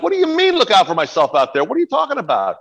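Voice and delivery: high-pitched retold panic; acting out frantic disbelief; complete panic. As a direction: demand an explanation in mock alarm. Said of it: "a complete panic".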